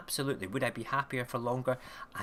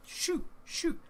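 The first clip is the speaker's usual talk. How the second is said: put-on whispered toddler; 3 dB louder than usual. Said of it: "telling me to go away".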